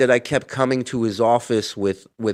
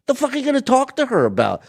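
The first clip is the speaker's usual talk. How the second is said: mock incredulous; 12 semitones higher, faster than usual. Retold incredulous question.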